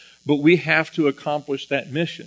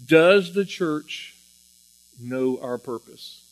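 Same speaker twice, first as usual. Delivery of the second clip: weighty question; slower than usual. Real, not acted. Posing the key question slowly.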